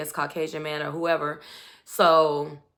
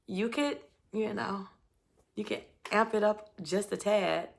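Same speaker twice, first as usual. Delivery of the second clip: softer, halting hint; tentative, imitated; 7 dB quieter than usual. Woman asking her man for more touch, imitated hesitancy. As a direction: tiptoe delicately into the request.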